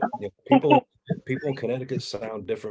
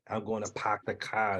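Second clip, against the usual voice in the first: put-on Boston accent; 5 dB quieter than usual. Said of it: "they got the same accent".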